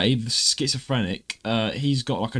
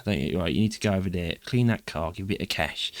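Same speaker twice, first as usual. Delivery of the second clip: playing Kray brother; 5 semitones lower than usual. Host playing the Kray brother telling off a lad. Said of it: "I can play his brother".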